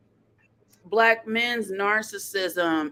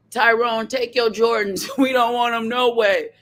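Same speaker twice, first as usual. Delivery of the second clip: sassy comeback; 5 semitones higher, 4 dB louder than usual. Retold or imitated. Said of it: "black women were in the comment section like".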